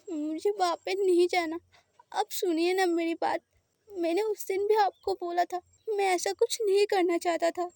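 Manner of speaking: plead, close to tears; lightly voiced scared boy. Boy begs not to be sent back, a hint of tears.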